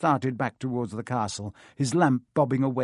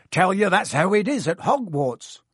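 growled; 7 semitones higher, 5 dB louder than usual. Acted. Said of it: "Hagrid growled".

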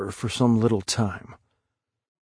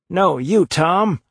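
high-pitched anxious insistence; frightened urging; 7 semitones higher, 4 dB louder, slower than usual. A narrator's reading. Huck urging Tom to peep through the crack, frightened. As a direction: push the task back nervously, pitched up.

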